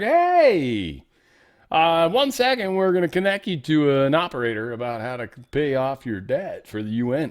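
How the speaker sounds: high, loud phone-agent opening easing to normal; collection-call agent. Acted. Debt collector phoning a head of state, mock call voice. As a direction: play a chirpy hold-line caller, settling down. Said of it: "you get the phone call".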